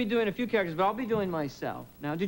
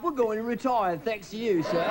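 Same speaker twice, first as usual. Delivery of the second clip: British driver; 3 semitones higher than usual. Retold or imitated. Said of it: "He shows at the end of his wife".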